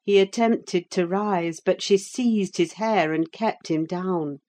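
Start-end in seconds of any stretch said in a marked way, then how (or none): none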